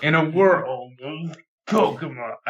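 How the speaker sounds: slow, dramatic movie trailer announcer; trailer guy voice. Acted. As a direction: boom it like an epic trailer. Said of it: "they don't do the trailer guy voice anymore".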